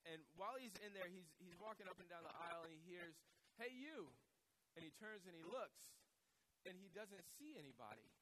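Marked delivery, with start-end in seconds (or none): 3.6-4.1 high-pitched parrot call. Acted. Parrot hailing a shopper in the aisle, high call. Parrot calls out to passing man.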